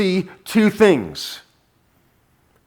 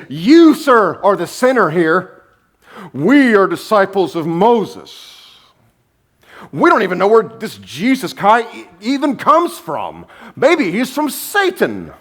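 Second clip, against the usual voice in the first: high, indignant mock tirade; hammed-up outrage, punching the accusations; really mad; 5 semitones higher than usual. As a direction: act out offended religious leaders berating him. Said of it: "now they're really mad".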